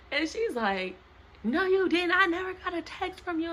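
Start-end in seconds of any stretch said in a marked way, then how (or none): 1.4-3.5 imitating mom's indignant denial; mock mom. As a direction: mimic mom's sharp denial. Mom voiced denying.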